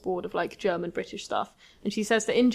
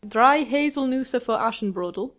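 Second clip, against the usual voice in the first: "Drei Haselnüsse für Aschenbrödel" said with a careful German accent; 4 semitones higher than usual. Shown as a demonstration. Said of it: "That was my best German accent".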